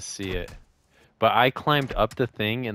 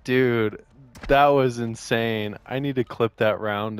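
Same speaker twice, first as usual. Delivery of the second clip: frat bro. Real, not acted. Amazed after play.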